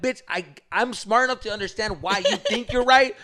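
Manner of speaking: mock frustrated comeback; frustrated retort. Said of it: "made it more frustrating".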